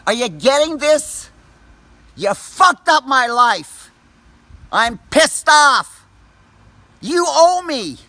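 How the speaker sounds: real rage, spit every word at them; furious screaming. Real, not acted. Furious rant at the police officers.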